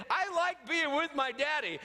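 put-on high, sweet little girl voice; shy little girl. Daughter answering the doctor in a high little girl voice. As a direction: sound like a bashful daughter. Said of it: "she said".

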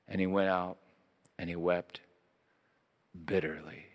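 low, soft reading with long pauses; hushed sorrow. A narrator's reading. Preacher reading Peter's bitter weeping, hushed and solemn.

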